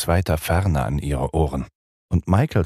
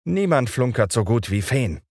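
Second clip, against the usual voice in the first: put-on mild scolding in a higher boyish voice; 7 semitones higher than usual. A narrator's reading. Peter mildly scolds the fairy Glöckchen. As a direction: tell off the fairy lightly. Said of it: "schimpfte Peter".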